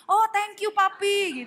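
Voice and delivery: playful wifely sweetness; sweet-talking wife. Acted. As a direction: coo gratefully to a generous husband. Wife gushing over husband's gift.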